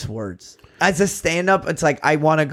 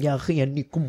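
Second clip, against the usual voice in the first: put-on Yemeni accent, quieter; 5 dB quieter than usual. Explaining a fighting taunt, doing an impression of a Yemeni guy. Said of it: "this is my impression of a Yemeni guy that's trying to find you".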